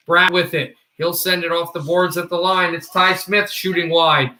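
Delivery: brisk running commentary on each pass; hockey play-by-play. Acted. Streamer narrating the game live for viewers, play-by-play. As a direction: narrate the action like a TV announcer.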